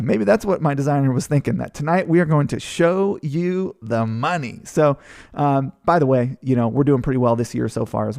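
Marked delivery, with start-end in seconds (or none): 1.7-4.6 slow, dramatic movie-trailer announcer; mock announcer. Presenter hamming up the slide title to the webinar audience, mock announcer. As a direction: draw it out like a game show host.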